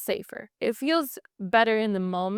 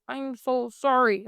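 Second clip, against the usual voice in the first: put-on robotic kid apology; 2 semitones higher, slower than usual. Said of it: "raised like robots".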